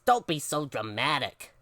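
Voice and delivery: dry, weary mom; mildly fed-up parent; exasperated. Acted. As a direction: dismiss the drama with an eye-roll. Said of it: "rolling her eyes".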